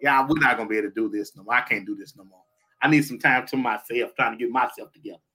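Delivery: ordinary talk, nothing marked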